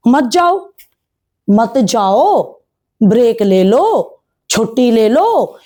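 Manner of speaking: slow, drawling mock advice with long endings; drawn-out exhortation. Vlogger telling the celebrity mother to stay home, drawn-out exhortation. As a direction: stretch the last word of each short phrase.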